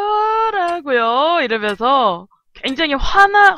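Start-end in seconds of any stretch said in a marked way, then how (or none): 0.1-1.4 long-drawn, higher indignant wail; hammed-up outraged what; mock anger. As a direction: stretch the word out to make a show of being angry. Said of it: "화가 났음을 어필하도록 하겠습니다".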